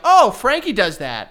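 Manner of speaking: loud, slow mock tattling; brothers telling on him. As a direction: call it out like a sibling snitch. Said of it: "my brothers both were like".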